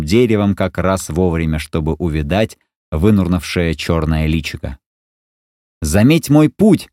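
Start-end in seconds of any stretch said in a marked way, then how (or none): 5.8-6.9 high slow call upward; shouting. Acted. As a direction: call it up to the sky. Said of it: "закричал Маугли".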